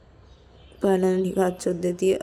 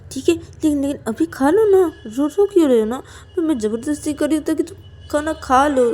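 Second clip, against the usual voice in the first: lightly voiced pleading character, pitched up; coaxing Ananya; 6 semitones higher than usual. Ananya begs Payal to eat despite her anger, coaxing. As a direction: coax with a higher, insistent voice.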